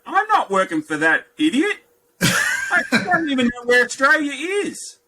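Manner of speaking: high, slow mock indignation with a laugh; scoffing to wife. Husband telling wife about the interview, laughing scorn. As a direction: scoff at the idiot manager. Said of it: "and I said".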